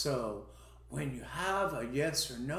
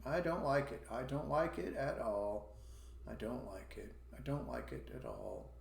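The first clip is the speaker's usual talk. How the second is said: dislike; 5 dB quieter than usual. Shown as a demonstration. Teacher showing students a one-star dislike, sinking and soft. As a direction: let the dislike drag the voice down. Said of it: "imagine it's a one".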